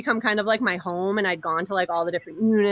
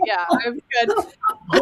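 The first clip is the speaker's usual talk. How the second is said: sarcastic brush-off; 9 semitones higher, much slower than usual. Retold or imitated. Sarcastic dismissal of guards.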